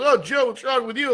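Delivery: mock motherly questioning, high-pitched; imitated concerned mom. Mom's question voiced at dinner.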